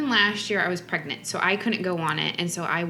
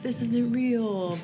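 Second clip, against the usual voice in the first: lightly mimicked kid, drawn out and higher; a slow, slightly raised mock-doubting kid; 4 semitones higher, much slower than usual. Parent imitating kids questioning things, lightly mimicked doubt. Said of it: "kids are, like, questioning those sorts of things".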